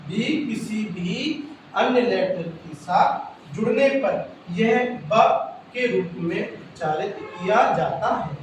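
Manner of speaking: slow, drawn-out dictation pace. Shown as a demonstration. Teacher dictating the B rule to pupils, slow and deliberate. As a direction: read the rule slowly so they can write it.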